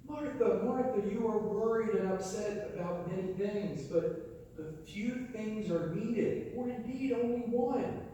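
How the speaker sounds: lovingly exasperated rebuke. Retold or imitated. Jesus gently scolding busy Martha, exasperated. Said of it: "Can you hear the exasperation there?".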